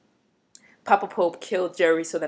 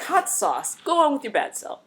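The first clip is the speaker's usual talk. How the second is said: cheering her on; 8 semitones higher than usual. Retold or imitated. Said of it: "I was like".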